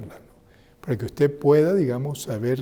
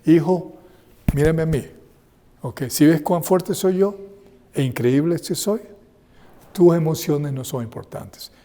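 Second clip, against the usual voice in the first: mock-proud father puffing himself up; boastful parent; 3 semitones higher, 4 dB louder than usual. Father boasting his strength to sad son, mock-proud. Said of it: "La emoción tuya no es importante".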